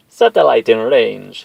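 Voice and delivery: loud slow call across the room. Acted. Tech calling out to the command center, loud slow call. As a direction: call it out to the team. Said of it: "he called out".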